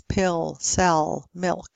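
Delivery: "pill, cell, milk" with dark L. Shown as a demonstration. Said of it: "would also have a dark L".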